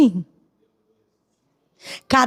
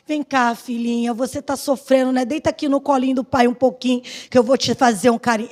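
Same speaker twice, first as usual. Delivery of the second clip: tender father; 2 semitones lower, faster than usual. Pretend. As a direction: coax a hurting child, gently. Imagined tender father comforting. (pai carinhoso, voz suave)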